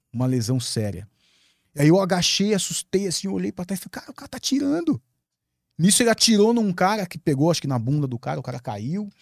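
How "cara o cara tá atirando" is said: much higher, startled retold shout of alarm; alarmed cry. Warning friends that the man is shooting, high alarmed voice. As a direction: blurt it out in shock as shots ring.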